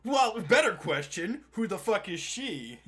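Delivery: laughing disbelief. Real, not acted. Continues laughing outburst.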